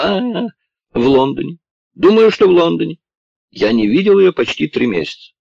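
high, loud frightened blurting; panicked. Acted. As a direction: gasp it out in fear after the blow. Lord beaten, crying out. (испуганно, высоко и громко)

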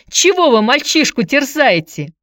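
high, loud reproach; indignant shouting. A narrator's reading. Aunt defends nephew from the visitor's questions, shouting. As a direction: cry out in protective outrage. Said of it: "продолжала кричать тётка".

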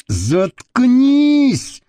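high-pitched, drawn-out groan; moaning. A narrator's reading. Man silencing his screaming lover, groaning. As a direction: wail it out in exasperation. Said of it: "простонал Костолом".

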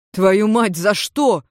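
mild outraged yelp after a punch. Acted. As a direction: cry out, hurt and offended. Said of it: "возмутился Йен".

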